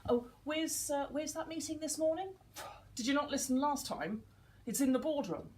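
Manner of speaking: mock exasperated "did you not listen"; critical parent. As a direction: talk down to them with a sigh. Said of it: "critical parent".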